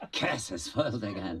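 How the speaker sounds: villain line said through a laugh. Acted. Actor repeating his favourite line, laughing. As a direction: laugh as you say it. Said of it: "I like saying".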